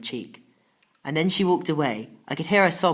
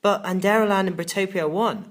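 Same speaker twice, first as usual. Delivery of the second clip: protesting; 5 semitones higher, 4 dB louder than usual. Acted. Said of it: "I protested".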